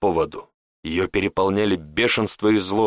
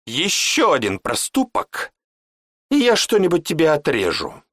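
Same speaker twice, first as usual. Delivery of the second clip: threatening; 7 semitones higher than usual. Acted. Mage threatens to cut something off his apprentice. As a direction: threaten him coldly then bark the question.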